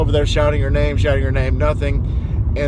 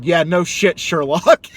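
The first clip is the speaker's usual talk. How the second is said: put-on sarcastic old-lady comeback, pitched up; imitated blunt retort; 4 semitones higher, 3 dB louder, slower than usual. Elderly customer to salad-proud driver, imitated blunt retort. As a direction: fire it back pointedly, a bit high. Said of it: "looked me dead in the eye and said".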